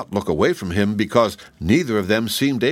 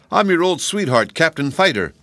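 soldier voice; 9 semitones higher than usual. A narrator's reading. Tin Soldier to old love.

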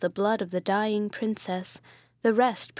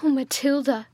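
louder, higher despairing cry; anguished cry; 5 semitones higher, 4 dB louder than usual. A narrator's reading. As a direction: break away calling her name. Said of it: "bursting from her".

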